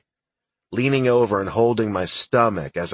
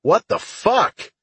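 sharp, high disbelieving shout; stunned shout of disbelief; 12 semitones higher, slower than usual. A narrator's reading. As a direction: blurt it out in shock, much higher. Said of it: "Sheffield shouted".

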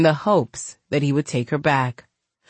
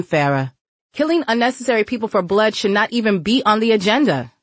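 lightly voiced scolding woman; 5 semitones higher than usual. Mia lecturing Farah.

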